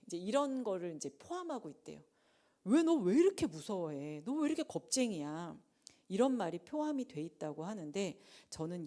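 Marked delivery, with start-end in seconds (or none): 2.7-5.6 louder, scolding tone; stern rebuke. Acted. Jesus scolds the frightened disciples, stern and loud. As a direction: scold them for being cowards.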